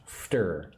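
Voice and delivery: "Fter" as one syllable, no vowel between f and t; isolated middle syllable. Shown as a demonstration. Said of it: "The middle part is strange".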